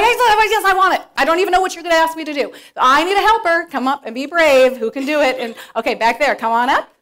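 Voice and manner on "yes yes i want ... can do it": put-on high, loud eager kid; eager four-year-old. An eager four-year-old volunteers, high and loud. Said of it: "You'd be like".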